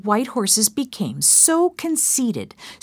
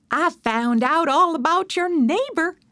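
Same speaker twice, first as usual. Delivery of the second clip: higher, eager gossip; announcing gossip; 8 semitones higher than usual. Acted. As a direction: announce it with relish. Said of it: "Emma announced".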